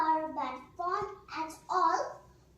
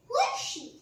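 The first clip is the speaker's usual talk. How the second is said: startled question; 12 semitones higher, 5 dB louder, faster than usual. Acted. Lucy startled by witch news.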